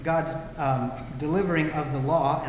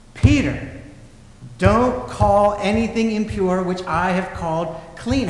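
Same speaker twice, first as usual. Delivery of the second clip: loud, high call of the name, then firm and slowed; insist, now that you have said it three times; raised voice; 3 semitones higher, 6 dB louder than usual. Retold or imitated. God's voice repeating the command to Peter, loud and firm. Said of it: "the louder I say it".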